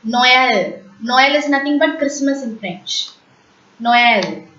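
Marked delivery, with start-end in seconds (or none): 0.0-0.8 "Noël" as no-EL, two syllables; trema pronunciation. Shown as a demonstration. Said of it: "When you pronounce E with the trema". 3.8-4.5 "Noël" as no-EL, falling at the end; teacher's model of "Noël", E sounded separately; trema pronunciation. Shown as a demonstration. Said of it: "When you pronounce E with the trema".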